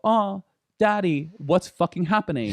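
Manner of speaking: a scared pup calling for daddy; dog voice. Retold or imitated.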